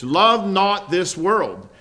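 Love not, said loud with a falling close; emphatic. Shown as a demonstration. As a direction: hammer home the command. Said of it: "You get it?".

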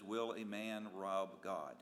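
title read slowly and evenly, Will a Man Rob God. Shown as a demonstration. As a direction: announce the title, slow and measured. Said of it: "The title this morning is".

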